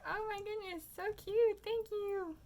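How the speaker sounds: high, squealy gushing; gushing thanks. Retold or imitated. Trader thanking a girl for her gift, gushing.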